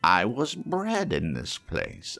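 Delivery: put-on an old man seeing his boyhood home; overcome with emotion. Scrooge moved, recognizing childhood home.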